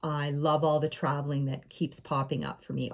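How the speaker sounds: low, unhurried gratitude; contented affirmation. Shown as a demonstration. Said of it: "get into that energy".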